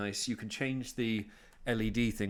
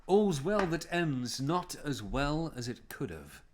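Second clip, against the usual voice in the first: slow, raised theatrical reading; mock Shakespearean; 5 semitones higher, slower than usual. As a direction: declaim it slowly, lightly hammed. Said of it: "this is for Lucy".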